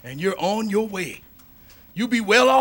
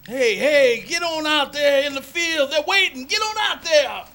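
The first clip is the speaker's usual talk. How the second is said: louder and higher, hurrying him; calling out; 5 semitones higher, 4 dB louder than usual. Acted. Owner urging the jockey out to the waiting field, loud. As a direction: shout him out onto the track.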